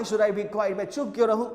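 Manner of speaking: imitating a loud, angry retort; mock indignant protest. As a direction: object a little loudly, as if angry. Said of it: "थोड़ा loud होके बोल रहा है".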